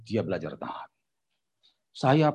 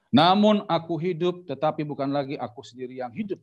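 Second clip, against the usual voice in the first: scripture reading; 2 semitones higher than usual. A narrator's reading. Preacher reads Galatians to congregation, solemn scripture reading. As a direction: begin it raised and stretched, then ease down.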